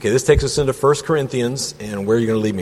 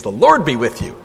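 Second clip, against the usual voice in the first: simple greeting; 2 semitones higher, 3 dB louder than usual. Shown as a demonstration. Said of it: "Simple little greetings".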